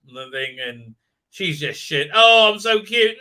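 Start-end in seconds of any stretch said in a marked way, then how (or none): 2.1-3.2 mock cutesy girl. Mocking a cutesy character.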